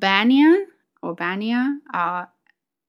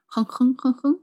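higher, short nasal-sound "hung" grunts; imitated pig grunt; 4 semitones higher than usual. Playing with a squeezed pig toy, imitated grunts. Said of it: "he always squeezed that, and I will say".

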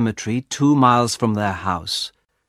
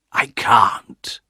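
mildly anguished refusal; reluctant. A narrator's reading. Husband answers wife's demand, mildly anguished. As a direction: refuse with a touch of dread.

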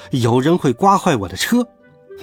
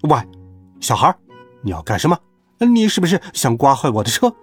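fierce. Acted. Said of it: "凶巴巴地说".

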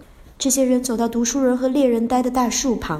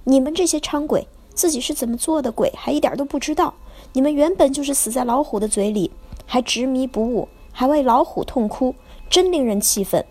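sharp, raised scolding voice, higher at the start; stern scolding; 3 semitones higher than usual. Acted. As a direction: rebuke the ghosts harshly. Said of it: "他厉声地骂道".

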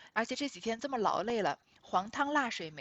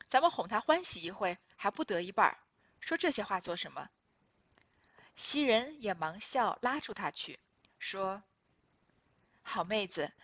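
reading the novel aloud. Acted. Reads original novel passage aloud. (朗读古典小说原文)

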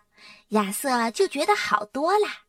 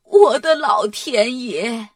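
loud, slow, drawn-out astonishment; shocked exclamation; 5 dB louder, slower than usual. A narrator's reading. Grandma sees Dora's spots and exclaims, shocked. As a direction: cry out aghast, stretching the words. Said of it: "奶奶惊呼".

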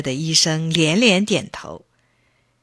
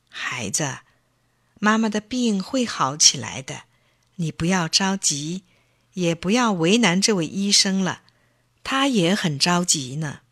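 gently. Acted. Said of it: "轻轻地说".

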